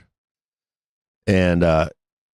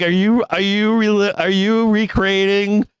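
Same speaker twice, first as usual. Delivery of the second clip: pitched way up in disbelief at the dogs; shocked scolding; 11 semitones higher than usual. Retold or imitated. Dog owner scolds the dogs, high and incredulous.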